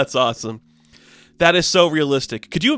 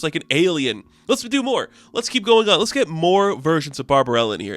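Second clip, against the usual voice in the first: evil director; 3 semitones higher than usual. Retold or imitated. Evil director voiced in recap.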